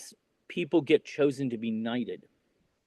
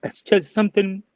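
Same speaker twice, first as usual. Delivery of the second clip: high, strained voice fighting tears; real tearful catch in the throat; choked up; 7 semitones higher, 3 dB louder than usual. Real, not acted. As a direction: force the words out between long pauses. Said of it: "I'm getting a little choked up".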